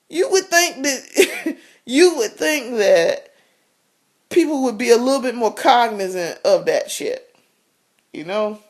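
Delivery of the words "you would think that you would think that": laughing. Real, not acted.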